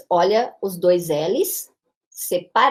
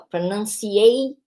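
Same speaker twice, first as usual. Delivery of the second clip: pronunciation with the main stress on ei and a lighter stress on nan; pronunciation with primary stress on ei; slower than usual. Shown as a demonstration. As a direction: say pronunciation with the strongest beat on ei. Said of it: "o ei é mais forte que o nan".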